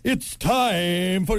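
slow, drawn-out show opener; announcer intro. Acted. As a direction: stretch it out like a ring announcer. Sports announcer intro attempt.

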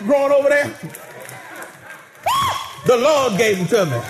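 lightly voiced old farmer, proud and grateful; a hint of a country deacon counting blessings; Shouting John. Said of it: "Shouting John said".

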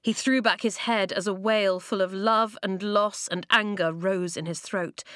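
plain reading voice

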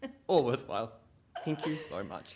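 high, loud, laughing gratitude; hammed-up relief through laughter; mock gushing thanks. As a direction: thank your one fan as if overwhelmed. Retold gushing thanks to lone laugher.

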